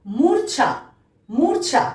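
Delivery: careful teacher's মূর্ছা, r before chh; model pronunciation. Shown as a demonstration. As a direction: say মূর্ছা with র sounded just before ছ. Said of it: "ঠিক একইভাবে".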